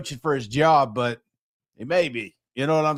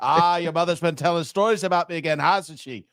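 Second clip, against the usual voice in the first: put-on half-assed Irish accent; 2 semitones higher than usual. Co-host asked for an accent, hams a Braveheart line in a half-assed Irish accent. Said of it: "like, a little half-assed Irish one".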